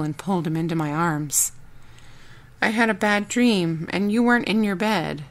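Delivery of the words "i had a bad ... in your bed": sleepy child, lightly voiced. Child tells of bad dream.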